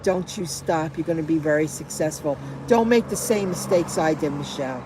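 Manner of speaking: softly retold fatherly advice; gentle encouragement. Retells dying father's encouragement.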